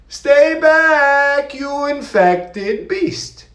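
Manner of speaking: high, loud, slow yell. Acted. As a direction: shout them away. Yelling at someone to stay away.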